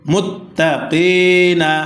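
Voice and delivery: chanted, long held "qee"; very slow melodic tajweed reading; slow Quran recitation. Shown as a demonstration. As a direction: stretch the long vowel in a measured chant. Recites the word being taught.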